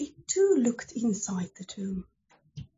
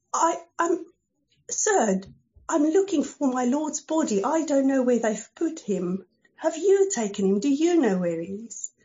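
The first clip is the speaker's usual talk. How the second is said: pleading Mary; 4 semitones higher, 4 dB louder than usual. Acted. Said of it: "So she said to him".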